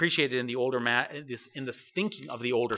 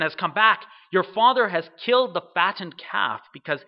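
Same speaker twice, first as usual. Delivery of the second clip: louder, lightly acted excitement; excited servant; 3 semitones higher, 5 dB louder than usual. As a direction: proclaim good news like an excited servant. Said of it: "you can hear their excitement".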